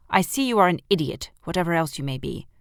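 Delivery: loud, fast, scornful; contemptuous queen. Acted. The Queen losing patience with Edmund, fast and loud. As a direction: rattle off the insult impatiently.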